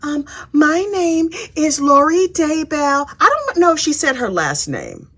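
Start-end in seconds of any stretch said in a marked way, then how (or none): 0.0-3.1 imitating a sugary innocent defendant; innocent girl voice. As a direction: put on a fake innocent little voice. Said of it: "I'm gonna use my softest, innocent girl voice".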